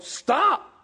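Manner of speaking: high-pitched storyteller's yell; yelled command. A narrator's reading. Rider who forgot the command, yelling. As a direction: yell it at a runaway animal. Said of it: "And so he yelled".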